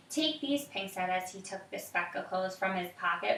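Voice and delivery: put-on reading aloud to a child, evenly; story narration. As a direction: tell the story calmly.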